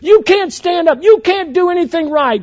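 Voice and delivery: hammed-up angry sports dad; mock shouting dad. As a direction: yell it from the stands like an obnoxious father. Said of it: "the dad would shout".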